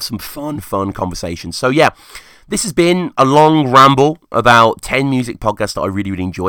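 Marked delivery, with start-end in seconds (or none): 1.6-6.5 hoarse, rusty voice; rasping like a rusted engine; rusty unused voice. Real, not acted. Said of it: "I sound like a fucking rusted steam engine".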